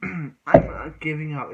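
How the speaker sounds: loud, slow, determined hero line; hammed-up hero resolve; defiant declaration. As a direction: plant your feet and refuse to quit. Hero defying the rival.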